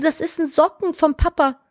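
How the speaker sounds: lightly voiced patient parent; gently explaining parent. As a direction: patiently repeat it to a toddler. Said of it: "Ich so".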